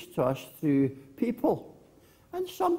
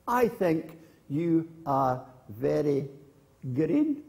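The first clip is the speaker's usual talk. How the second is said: put-on girl calling to hills; slower than usual. Girl in story calls to hills.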